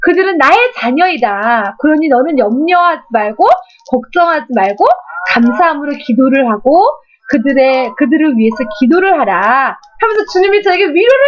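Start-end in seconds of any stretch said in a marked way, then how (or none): 0.0-9.8 voice of God comforting. Retold or imitated. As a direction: speak as a gentle God reassuring a daughter. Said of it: "어떻게 위로하시냐면".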